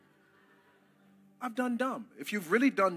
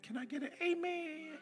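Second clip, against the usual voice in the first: calling for an amen; 10 semitones higher, 9 dB quieter than usual. Real, not acted. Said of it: "You didn't say it like I said it".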